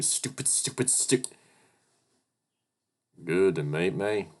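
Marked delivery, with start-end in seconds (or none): 0.0-1.2 hissed under the breath; whispered self-reproach; self-scolding whisper. Real, not acted. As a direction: whisper it at yourself in embarrassment. Berating himself in panic.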